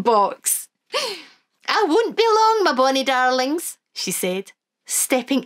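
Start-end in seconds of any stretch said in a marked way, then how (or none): 1.7-3.8 put-on high, lilting old Scottish granny; Wee Granny voice. Granny to the children, high and fond.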